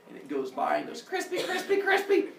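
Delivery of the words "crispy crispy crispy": high, laughing singsong; gleeful cackle. Acted. The sun chariot laughs as it burns his skin. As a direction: gloat over the burning with a giggle.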